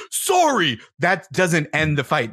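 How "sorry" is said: high curt throwaway sorry; insincere sorry. Retold or imitated. Partner's complaint brushed off, curt insincere sorry. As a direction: shrug it off, high and dismissive. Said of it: "and you were like".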